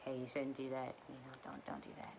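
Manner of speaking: very soft, hushed warning; faint angelic whisper. Retold or imitated. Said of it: "they will whisper and say".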